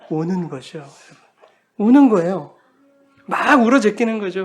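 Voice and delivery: ordinary talk, nothing marked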